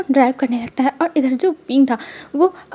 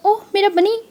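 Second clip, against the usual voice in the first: higher, doting coo on "ओह मेरा बनी"; 6 semitones higher than usual. Acted. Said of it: "मतलब वांग जी कहता है". (ऊँची आवाज़ में "ओह मेरा बनी" दुलारते हुए)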